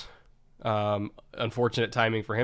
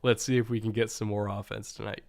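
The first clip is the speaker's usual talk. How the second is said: put-on old-timey radio voice. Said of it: "Old-timey radio voice".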